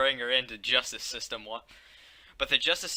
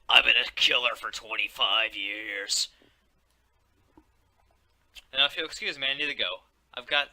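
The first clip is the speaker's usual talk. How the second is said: raspy chain-smoker voice; rough, smoky growl; smoker's rasp; 6 dB louder than usual. Acted. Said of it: "Jeff sounds like a fucking chain smoker".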